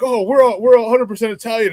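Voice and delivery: proud boast. Retold or imitated. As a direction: puff it up like proud locals, lightly mocked. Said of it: "they get pride in their nationality".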